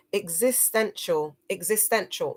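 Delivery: nail "existential" at last; careful practice. Shown as a demonstration. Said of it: "I have to get this".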